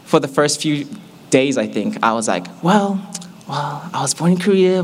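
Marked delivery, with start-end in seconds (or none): 2.6-4.8 hesitant explaining. Retold or imitated. Voices self explaining complicated origins.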